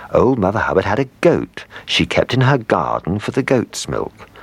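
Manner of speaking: ordinary delivery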